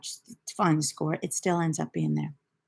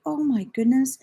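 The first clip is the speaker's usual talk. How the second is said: retold exasperation; 5 semitones higher than usual. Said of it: "I'm like".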